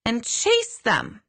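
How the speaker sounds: slow, hesitant delivery of the message; careful telling. Retold or imitated. Medium passing an odd message to the client, slow and unsure. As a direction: spell it out slowly, unsure. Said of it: "I'm like".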